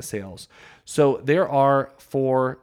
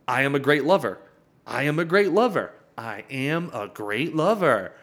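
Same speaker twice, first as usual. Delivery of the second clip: louder, insistent repeating like an ad; repeated pitch; 4 dB louder than usual. Acted. Man repeating his boast to the woman, louder and insistent. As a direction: hammer the same line over and over. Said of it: "That's advertising".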